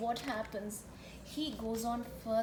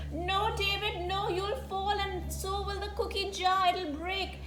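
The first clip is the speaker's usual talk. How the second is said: higher-pitched acted motherly warning; alarmed warning; 5 semitones higher than usual. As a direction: warn him off in mock alarm. Mother warns David off cookie jar.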